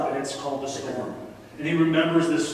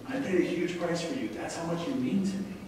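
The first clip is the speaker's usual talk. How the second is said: softer, gentler restatement; tender repeat; 3 dB quieter than usual. Acted. Preacher repeats God's promise to the congregation, softer and tender. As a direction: let it sink in quietly. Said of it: "Let me say that again".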